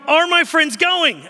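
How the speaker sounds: loud, high, drawn-out question; hammed-up kid, asking slowly and loudly; exaggerated replay of a child's question; insistent child imitation. Son's question, exasperatingly repeated.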